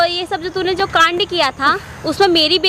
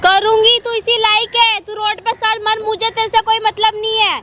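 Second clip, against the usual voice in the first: angry. Acted. Daughter rejects her stepmother's question about her anger, angry. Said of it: "इतना गुस्सा क्यों कर रही है".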